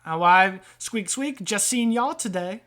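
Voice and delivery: lightly voiced grumbling rat; hint of a wiseguy rat with a grievance; aggrieved rat trader. Rat complaining to customers about Sam, mildly aggrieved.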